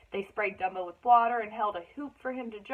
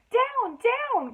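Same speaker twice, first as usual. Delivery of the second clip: sharp, much higher command; ringmaster's cry; 13 semitones higher, 5 dB louder than usual. Acted. Ringmaster ordering the angry mother elephant down, loud and sharp. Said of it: "cried the ringmaster".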